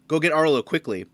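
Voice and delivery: guard's urgent order. Acted. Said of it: "you can hear him say".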